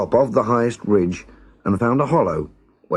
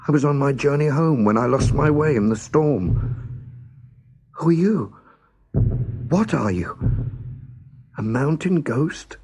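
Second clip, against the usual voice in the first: higher, anxious little voice; scared young girl; 5 semitones higher than usual. Acted. Lost girl asks unseen voice who it is, anxious. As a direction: ask nervously, searching the sky.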